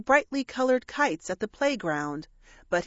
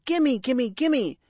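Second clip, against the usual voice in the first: put-on children shouting; 4 semitones higher, slower than usual. A narrator's reading. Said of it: "two children's voices shouting".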